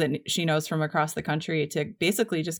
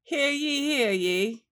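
town crier; 7 semitones higher, slower than usual. Retold or imitated.

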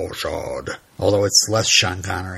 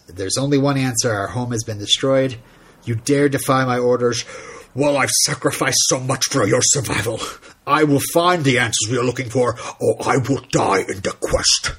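light Sean Connery-tinged commander, grave and measured; a hint of a villain general laying down orders; Zod impression. Host quoting Zod's favorite line reading, lightly Connery-like. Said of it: "is almost like, uh, like Sean Connery".

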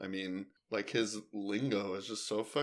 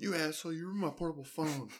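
quoting a movie line; 7 semitones higher, 5 dB quieter than usual. Retold or imitated. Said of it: "quoting a character's outburst".

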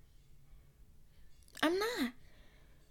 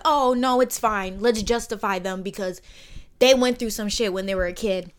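mock placating voice; 3 semitones lower, 4 dB louder than usual. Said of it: "we're just supposed to sit here like".

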